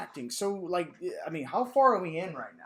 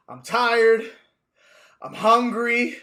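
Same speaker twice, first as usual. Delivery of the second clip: whiny Luffy; 5 semitones higher, 8 dB louder, slower than usual. Retold or imitated. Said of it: "he goes".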